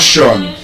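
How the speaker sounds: "Sean" as a full, round "shon"; wrong ending. Shown as a demonstration. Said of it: "it's not Sean".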